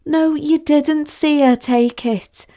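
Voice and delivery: high, slow, weary protest; drawn-out, exasperated correction. A narrator's reading. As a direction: contradict a friend with tired patience. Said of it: "said Sally wearily".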